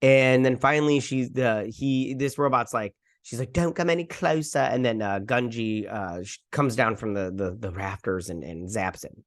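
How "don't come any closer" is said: put-on higher-pitched girl's warning; imitated warning. Girl warning off the robot, imitated high-pitched warning. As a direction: act out warding off a threat.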